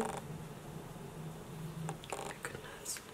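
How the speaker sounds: very soft, unvoiced amazement; awed whisper. Real, not acted. Vlogger stunned by the highlight, awed whisper. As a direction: whisper it under your breath.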